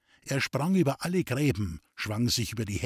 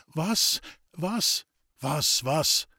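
stammering; 3 semitones higher, much slower than usual. Acted. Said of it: "stammelnden Laut".

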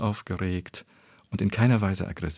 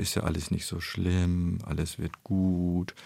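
put-on comforting a child; 3 semitones lower, 3 dB quieter than usual. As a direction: console a child who scraped a knee, drawing the words out. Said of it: "als wollte sie ein kleines Kind trösten".

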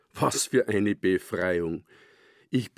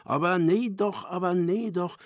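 higher, sing-song Silesian voice, "nee" falling; Lurchi in Silesian; 9 semitones higher than usual. A narrator's reading. Grandmother reads comic aloud, Lurchi speaking Silesian. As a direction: read the salamander's line in Silesian dialect. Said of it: "Und der Lurchi sprach Schlesisch".

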